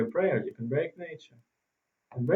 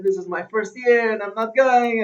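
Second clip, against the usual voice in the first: raised, higher-pitched defiant protest; retold yelling; 7 semitones higher, 4 dB louder than usual. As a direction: imitate a soldier yelling back. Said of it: "he just yelled at him".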